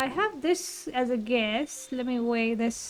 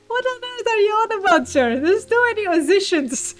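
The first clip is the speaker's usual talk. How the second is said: louder, higher, fed-up outburst; exasperated retort; 8 semitones higher, 10 dB louder, faster than usual. Acted. Character snapping back at the wordy Lester, louder and higher. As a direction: cut through his babble in disbelief.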